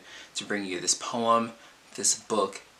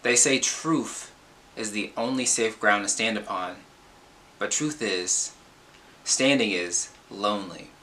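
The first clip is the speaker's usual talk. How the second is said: emphatic spoken-word delivery with weighty pauses; slam poem reading; 3 dB louder than usual. Acted. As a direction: perform it like slam poetry, punching key phrases between pauses.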